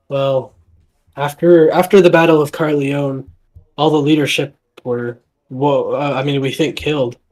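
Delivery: haltingly, with small restarts; shocked stutter. Acted. Shocked villager reporting on the lost battle, stuttering slightly. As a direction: stumble a little through the words. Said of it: "he kinda stutters through his words a little bit".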